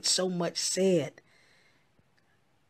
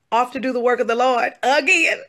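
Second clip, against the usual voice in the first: higher, louder, laughing through it; 6 semitones higher, 10 dB louder than usual. Real, not acted. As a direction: chuckle while saying it. Laughing sign-off.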